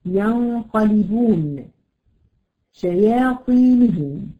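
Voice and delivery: ينقلبون and شياطينهم drawn out slowly; slow demo words. Shown as a demonstration. Teacher showing students words with emphatic letters. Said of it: "زي كلمة ينظرون".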